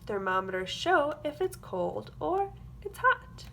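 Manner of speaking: put-on lively storybook read for young kids; sing-song picture book reading; reading to children. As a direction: read it like circle time, bright and clear. Reads a picture book aloud.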